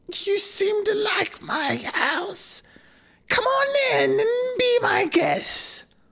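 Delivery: scary, very high, crackling witch voice. Reading Hansel and Gretel aloud, the witch invites the children in, in a scary, crackling voice. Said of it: "she spoke in her scary, crackling voice".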